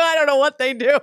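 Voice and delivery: amused and flustered, laughing as you speak. Real, not acted. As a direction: blurt it out through giggles. Giggles through an embarrassing explanation.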